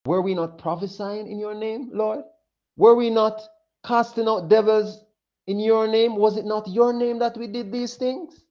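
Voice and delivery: rising, urgent pleading questions; pleading crowd. Acted. Rejected believers pleading with the Lord, rising urgent questions. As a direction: plead as if wronged at judgment. Preacher voicing the pleading people.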